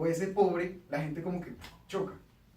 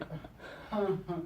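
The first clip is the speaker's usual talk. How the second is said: mock confused ah; hesitant mock ah; awkward blank ah; 5 dB quieter than usual. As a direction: sound out a puzzled non-reaction. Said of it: "Todo el mundo queda como que".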